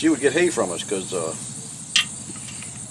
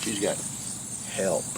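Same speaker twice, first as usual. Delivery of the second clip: inward groan; 3 semitones lower, 5 dB quieter, much slower than usual. Retold or imitated. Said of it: "I was groaning".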